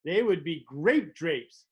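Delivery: slow, dreamy, spaced out; slow stoned voice. Retold or imitated. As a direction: savor the words slowly like a stoner. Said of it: "And you say".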